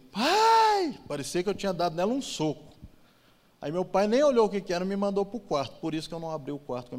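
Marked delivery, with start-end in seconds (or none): 0.1-1.0 a sudden piercing high yell of "Pai"; screaming for dad. Retold or imitated. Cousin on the phone screams for the father in shock. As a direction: shriek it in alarm, very high and loud. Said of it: "deu um grito".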